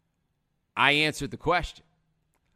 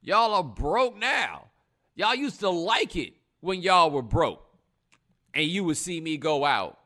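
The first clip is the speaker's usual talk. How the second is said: mock celebrity rant; 4 semitones higher, 4 dB louder than usual. Voicing a celebrity's complaint to fans.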